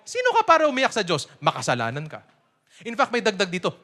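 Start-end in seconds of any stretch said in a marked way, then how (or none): 0.1-2.2 harsh accuser. Retold or imitated. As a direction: sneer it at the sufferer. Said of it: "Ano sinabi nito".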